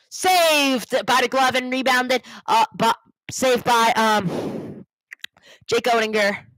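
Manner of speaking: live play-by-play save; excited save call. Real, not acted. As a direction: draw out the save, then settle.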